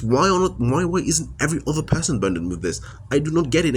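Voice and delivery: raw, rising outburst of frustration; real rage. Real, not acted. Venting to viewers about an unfair burden, real rage. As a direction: pitch climbing as the unfairness boils over. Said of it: "it fills me with so much rage".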